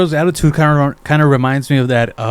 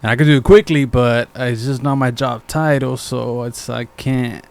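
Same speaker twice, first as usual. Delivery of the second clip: unhelpful coworker attitude. Retold or imitated. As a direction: lightly imitate a coworker dodging work. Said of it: "remember how his attitude was like".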